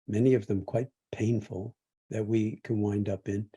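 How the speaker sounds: measured meditation guidance with long pauses; guided meditation. Real, not acted. Teacher guides meditators through feeling the body sitting and breathing, guided meditation. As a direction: guide them gently, leaving space between phrases.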